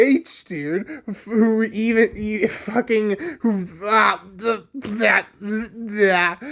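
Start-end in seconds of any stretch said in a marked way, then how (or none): 3.4-6.4 mock gibberish stammer; sputtering pretend alien talk; alien language. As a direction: stumble over broken syllables like a made-up alien tongue. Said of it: "That's just my alien language".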